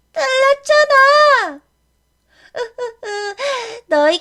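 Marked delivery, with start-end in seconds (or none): 0.1-1.6 higher, loud slow scolding; angry rebuke. Acted. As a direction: scold the friend for the wrong answer. Character angry at a wrong answer.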